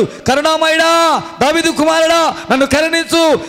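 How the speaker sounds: a lightly voiced blind man pleading, high; understated plea of the blind man; mild mock beggar's cry. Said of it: "బిగ్గరగా అరుస్తున్నాడు".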